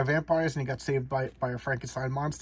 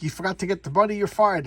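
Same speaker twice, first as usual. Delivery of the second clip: higher, lightly acted scolding; mock angry boss; 6 semitones higher, 5 dB louder than usual. Boss firing the delivery kid, mock angry. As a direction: play an irate boss dismissing someone.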